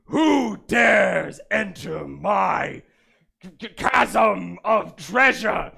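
slow, drawn-out booming dragon. Acted. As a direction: let each word roll like a dragon. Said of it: "let me try that again".

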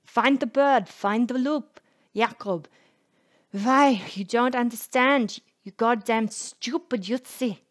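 frantic, high, loud yelling; crazed shouting. A narrator's reading. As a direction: scream it like a madman. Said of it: "is shouting like a crazy person".

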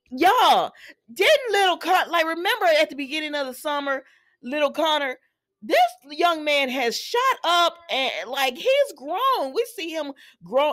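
high, emphatic disbelief, slowing on the key words; amazed. Real, not acted. Vlogger amazed little Connor has grown, high-pitched astonishment. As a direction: marvel at it, drawing words out. Amazed at how the boy grew.

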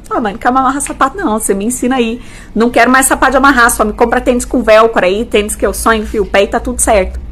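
lightly voiced kid, rattled off fast; uninterested older child. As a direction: brush mum off quickly, like a child. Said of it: "a menina vai falar". (imitando menina desinteressada, falando rápido)

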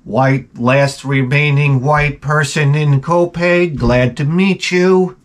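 slow, awkward greeting to the class; awkward self-introduction. Retold or imitated. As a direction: introduce yourself slowly, like an outsider. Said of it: "like an alien in here".

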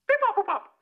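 high beeping robot. Acted. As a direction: beep it out like a robot. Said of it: "I'm you, get it?".

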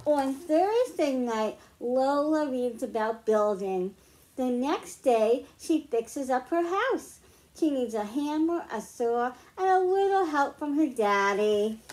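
lively picture-book read-aloud; reading to children. Acted. Teacher reads a picture book to the class, storytime voice. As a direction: read it like storytime for little ones.

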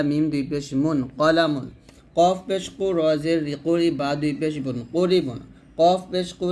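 heavy, back-of-throat Q in every কফ; thick qof. Shown as a demonstration. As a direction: spell it out with কফ kept thick, never kaf. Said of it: "অবশ্যই মোটা করতে হবে". (কফ মোটা উচ্চারণে)

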